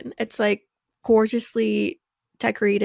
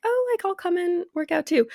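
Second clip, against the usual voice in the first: brightly pitched-up quote of yourself; higher, chipper volunteering; eager offer; 8 semitones higher than usual. Retold or imitated. Quoting own eager offer to dad.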